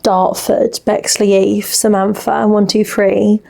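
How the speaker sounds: lightly imitated Dartford talk; a touch of Dartford twang; Dartford accent. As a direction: slip into a local Dartford accent. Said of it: "That's how they all spoke down there".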